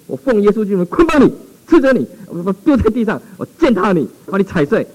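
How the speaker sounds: loud commanding rebuke in Jesus' name; forceful rebuke. Retold or imitated. Pastor rebuking the spirit in the box, loud and commanding. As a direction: cast it down with authority.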